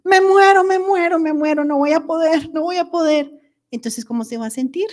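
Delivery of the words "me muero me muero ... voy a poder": high, dramatic "I'm dying" wail; mock despair. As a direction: ham up the overwhelmed complaint. Acting out catastrophic self-talk. (desesperación fingida y dramática)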